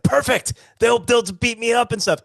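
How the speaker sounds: put-on high, excited goofy Irish accent; chirpy, overjoyed Irish caricature. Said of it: "in this goofy Irish accent".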